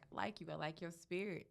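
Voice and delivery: a hint of her small, high voice; little tiny voice. Client praising the makeup artist, lightly mimicked tiny voice. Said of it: "in her little tiny voice".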